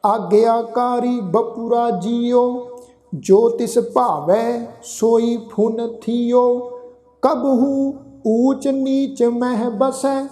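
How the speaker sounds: slow, measured Gurbani reading; scripture recitation. Shown as a demonstration. Teacher recites verse for congregation, slow sustained recitation. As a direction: draw out the line endings, pausing between phrases.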